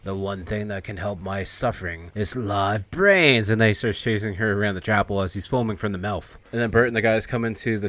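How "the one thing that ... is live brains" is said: zombie voice. Acted. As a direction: breathe it out like a newly risen corpse. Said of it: "He's like".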